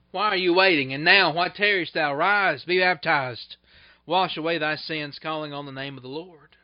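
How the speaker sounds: loud, driving call to be baptized; forceful appeal. Acted. Preacher pressing the congregation loudly to be baptized now. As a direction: hammer the question home, loud.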